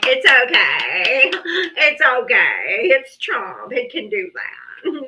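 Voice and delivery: slow, soothing mock reassurance; lightly hammed-up excuse-making; mocking Trump fans. Mocking fans excusing Trump, slow mild mock reassurance. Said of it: "y'all are like".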